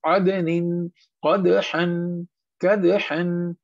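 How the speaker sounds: short echo after d, as in "qada-han" for कदहन; qalqalah bounce. Shown as a demonstration. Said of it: "इन पे bounce".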